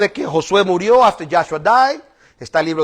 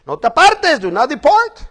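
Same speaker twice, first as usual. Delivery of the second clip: raised, emphatic divine command; stern command; 7 semitones higher, 3 dB louder than usual. Retold or imitated. God ordering Joshua, stern raised command. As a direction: press each word of the order home. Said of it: "como le dijo a Josué".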